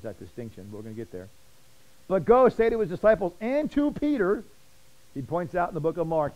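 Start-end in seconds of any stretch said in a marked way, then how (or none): 2.1-4.4 the angel's order, higher and louder; loud command. Acted. Preacher reading the angel's charge to the women, loud. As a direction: call it out like a command.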